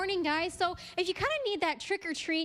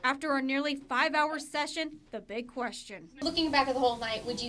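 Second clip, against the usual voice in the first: measured TV reporter voice-over; scripted reporter read; news report narration. A narrator's reading. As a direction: narrate it as a local news package.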